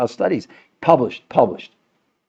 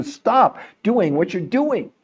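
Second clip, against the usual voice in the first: firm adult telling off; 6 semitones higher, slower than usual. Pretend. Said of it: "somebody has to be the adult in the room and tell you".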